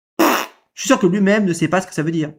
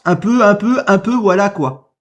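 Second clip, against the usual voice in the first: mocking the halting words; 3 semitones higher, slower than usual. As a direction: parrot his unfinished phrase with scorn. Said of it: "Il finit même pas sa phrase". (imitation moqueuse et hésitante)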